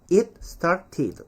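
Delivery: "it started" as "it, star-tee-duh"; 조금 발전한 발음. Shown as a demonstration. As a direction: stop the T of "it", keep hard T in "started". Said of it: "조금 발전하면". ('잇 스타티드'로)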